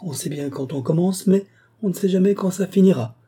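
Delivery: high, lilting social politeness; affable air. A narrator's reading. Abbé explaining the gala dinner to the visitor, affable. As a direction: excuse him amiably, rising in pitch. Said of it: "avec un air aimable".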